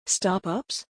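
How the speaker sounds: soft, rising question in wonder. A narrator's reading. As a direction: ask it softly, full of wonder. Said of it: "Esme's eyes widened in wonder".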